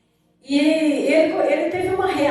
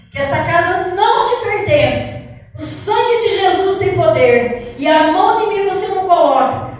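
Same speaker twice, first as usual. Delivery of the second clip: shouted rebuke; 3 semitones higher, 8 dB louder than usual. Retold or imitated. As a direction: roar it out like a battle cry. Retold rebuke of the demon. (repreensão gritada com fervor)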